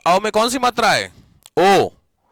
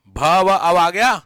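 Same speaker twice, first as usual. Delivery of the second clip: slow breakdown; 4 dB louder, much slower than usual. Shown as a demonstration. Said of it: "teacher breaks the word down".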